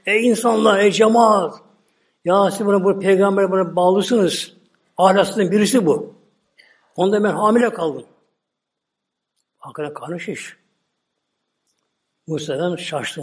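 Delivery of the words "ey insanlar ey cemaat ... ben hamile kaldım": raised, pleading false lament to the crowd; a woman faking tears as she accuses him before the people; mock tearful accusation; fake crying woman. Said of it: "Yalancı bir ağlama".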